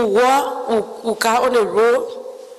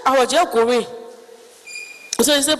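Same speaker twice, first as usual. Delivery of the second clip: ordinary delivery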